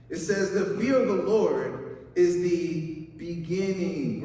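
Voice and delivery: slow line landing on a drawn-out BEGINNING; stress on beginning. Shown as a demonstration. Preacher correcting middle and last, slow stress on BEGINNING. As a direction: spell out the point, stretching BEGINNING. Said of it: "It doesn't say the fear".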